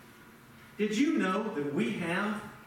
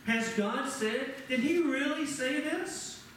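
mock doubting serpent; 7 semitones higher, slower than usual. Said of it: "that the serpent said".

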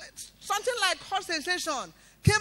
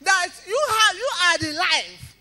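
loud, higher, pleading cry to God; loud prayer; 5 semitones higher, 9 dB louder than usual. Retold or imitated. Mother calls on God over her dead baby, loud fervent prayer. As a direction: cry out to Jesus for her life.

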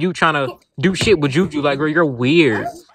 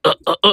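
imitating fake throwing up; short repeated gagging noises, put on; mock retching; faster than usual. Accusing someone of faking it, with mimicked retches. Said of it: "you was fake throwing up".

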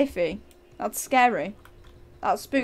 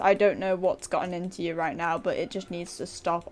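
mock disappointed lecture; 2 semitones lower than usual. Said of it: "so out of character".

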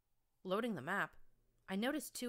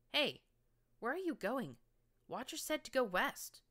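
higher and louder call after him; 8 semitones higher, 4 dB louder than usual. A narrator's reading. Narrator calling after the pony limping away, loud call. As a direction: shout after him to stop.

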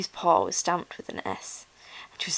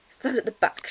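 mild raised-pitch shouted order; 6 semitones higher, 4 dB louder than usual. A narrator's reading. Other toys pushing Ruby away, mild shout. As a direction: order someone back, moderately raised. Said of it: "shouted the other toys".

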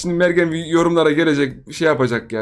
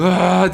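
imitated jump yell; 3 semitones higher, 4 dB louder than usual. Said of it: "diye atlayıp".

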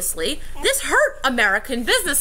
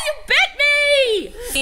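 real surprise; 13 semitones higher, 3 dB louder, much slower than usual. Real, not acted. Reacting to being bitten.

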